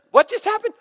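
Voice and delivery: high, loud, laughing astonishment; dad stunned by his daughter's offer to pray; stunned disbelief. Real, not acted. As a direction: gasp it out in happy shock.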